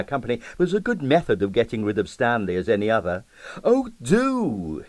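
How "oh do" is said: cordially. A narrator's reading. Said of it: "he said cordially".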